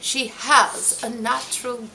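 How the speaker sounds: lightly voiced grand actress, stretching the last words; a touch of stagey grandeur, unhurried; grand theatrical Helen Hayes. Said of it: "she didn't really say it like that, but I want to say it like that".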